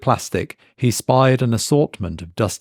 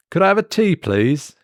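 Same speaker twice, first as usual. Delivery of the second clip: higher, mild polite ask; polite customer; 9 semitones higher than usual. A narrator's reading. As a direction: ask nicely, a bit unsure. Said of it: "he asked".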